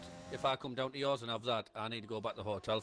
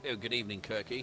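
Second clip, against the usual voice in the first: mock posh; 3 semitones lower than usual. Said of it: "it's very posh tonight".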